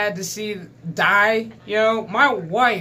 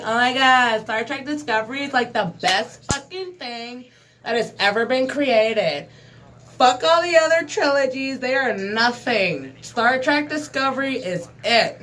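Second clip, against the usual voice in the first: mock millennial fan; 2 semitones higher than usual. Ranting vlogger mocking a gushing millennial fan. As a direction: parody a gushing young fan.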